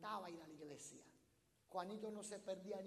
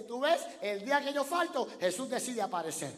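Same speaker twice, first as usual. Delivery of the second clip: put-on loud, high, offended child's cry; Juanito's complaint shouted a second time; indignant little boy again; 5 semitones higher, 15 dB louder than usual. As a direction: repeat the boy's punchline at full volume. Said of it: "Juanito dice".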